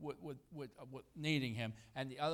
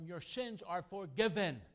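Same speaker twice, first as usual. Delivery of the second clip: slow, solemn and a little higher; Jesus pronouncing forgiveness; 6 semitones higher, 4 dB louder than usual. Acted. Preacher voicing Jesus forgiving the paralytic, slow and solemn. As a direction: draw out each word like a blessing. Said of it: "he said to them".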